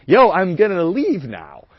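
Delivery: slow, then high and laughing; laughing retold exit. Telling the date he's leaving, breaking into high laughter. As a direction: crack up mid-line telling her off. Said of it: "and I'm like".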